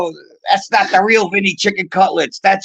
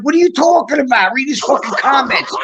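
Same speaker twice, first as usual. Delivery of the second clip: higher-pitched, exasperated retort; indignant protest; 6 semitones higher than usual. Retold or imitated. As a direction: protest as if wrongly blamed. Retelling his indignant protest.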